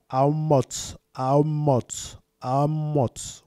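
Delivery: Amote with a released, hissed TS ending; biblical pronunciation. Shown as a demonstration. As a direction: repeat Amote as a pronunciation model. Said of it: "Même la prononciation". (Amote répété, finale TS bien sonore)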